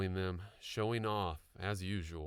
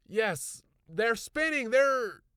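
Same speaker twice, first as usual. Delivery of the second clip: high loud insistent outburst; excited insisting; 10 dB louder, much slower than usual. A narrator's reading. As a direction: insist it really happened. Insisting to doubtful wife.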